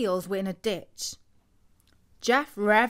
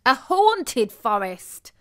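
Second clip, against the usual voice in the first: clarifying; 4 semitones higher, 7 dB louder, slower than usual. Acted. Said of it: "clarified Jeremy".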